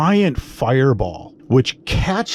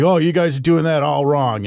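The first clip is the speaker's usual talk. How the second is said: higher, lightly mocking drunk guy; drunk know-it-all; 6 semitones higher than usual. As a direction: imitate a drunk heckler butting in. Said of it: "And he's drunk again".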